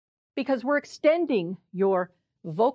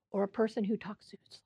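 fast, breathy whisper; 8 dB quieter, much faster than usual. Shown as a demonstration. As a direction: whisper the question quickly. Giving examples of speech stereotypes.

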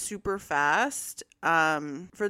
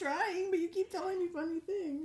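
higher, laughing real protest; giggling protest; 8 semitones higher, 5 dB quieter than usual. Real, not acted. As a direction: fight the giggles as you answer. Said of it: "She cry laughing".

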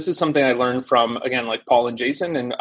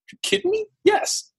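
eager yes. Retold or imitated. Imitating an eager influencer's reply.

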